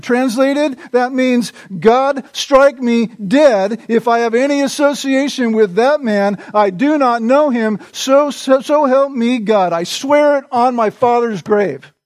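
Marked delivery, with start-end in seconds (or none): 1.8-11.9 emphatic, mildly heated denial; acted adamant denial; adamant oath. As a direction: swear it insistently, leaning on the key words. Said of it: "could not have said it more adamantly".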